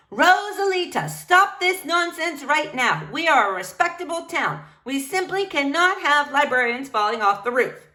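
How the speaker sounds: a stern town official scolding. Acted.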